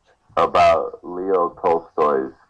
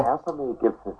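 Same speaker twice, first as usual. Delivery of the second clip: put-on Japanese accent; 7 semitones higher, 7 dB quieter than usual. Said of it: "your best Japanese accent".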